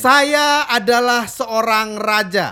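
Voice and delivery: медленно и веско, как король, с паузами; говори по-королевски, с достоинством; regal king demo. Shown as a demonstration.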